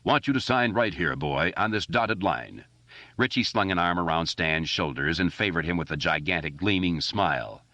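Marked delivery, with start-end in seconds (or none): 0.0-2.6 light booming announcer impression; a kid playing a music agent signing up his friend; newsreel announcer voice. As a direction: pitch it like an old newsreel voice. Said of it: "in the movie tone announcer's voice".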